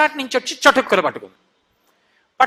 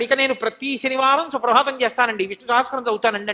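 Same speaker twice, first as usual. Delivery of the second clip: firm resolve. Acted. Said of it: "గట్టి సంకల్పం చేస్తాడు".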